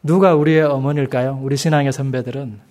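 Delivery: ordinary talk, nothing marked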